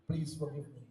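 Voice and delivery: humbled warrior begging the Lord; broken plea. Acted. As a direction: crumble as you beg forgiveness. Parshuram kneels before the Lord.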